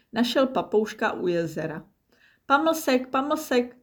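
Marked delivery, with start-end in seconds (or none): 2.5-3.8 much higher whining parrot voice. A narrator's reading. Parrot begging for a treat, whining. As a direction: whine it greedily like a parrot. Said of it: "zakňučel".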